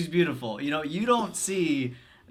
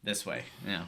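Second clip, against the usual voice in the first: whispering; 7 semitones lower, 7 dB quieter than usual. Real, not acted. Whispering before the scene.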